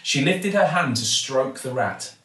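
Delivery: ordinary delivery, nothing marked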